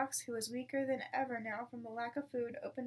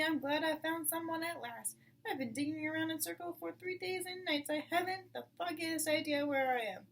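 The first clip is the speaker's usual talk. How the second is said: higher, fussy badger voice; relieved old badger; 5 semitones higher, 3 dB louder than usual. Lost badger to Mr Fox, fussy and relieved. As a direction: babble with relief.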